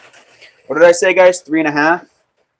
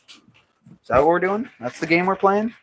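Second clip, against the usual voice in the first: mock indignant; 6 semitones higher than usual. Mock scolding the clay.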